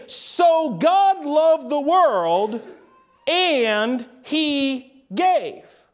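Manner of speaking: slow verse opening on "So", pause before "and he gave"; so at the start. Shown as a demonstration. Preacher moves so earlier, slow deliberate emphasis. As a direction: draw out each word, pausing after "world". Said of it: "start off the sentence with the word".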